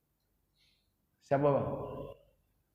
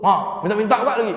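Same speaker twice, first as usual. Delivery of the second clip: acted scolding, higher and louder; mock cursing at a beggar; grumbling complaint; 4 semitones higher, 5 dB louder than usual. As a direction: gripe aloud like a grudging giver.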